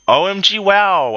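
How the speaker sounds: high, loud mock scream. A narrator's reading. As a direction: scream it in hammed-up amazement. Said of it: "I screamed".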